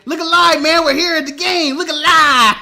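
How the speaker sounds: mock shout. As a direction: bark at him to wake up.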